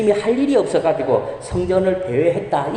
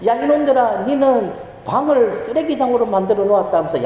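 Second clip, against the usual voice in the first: scolding mother; 5 semitones higher than usual. Retold or imitated. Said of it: "엄마가 아이들에게 이렇게 말했죠".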